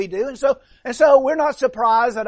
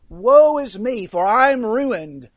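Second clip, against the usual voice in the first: exclamation of distress; 4 dB louder than usual. Retold or imitated. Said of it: "an exclamation of distress".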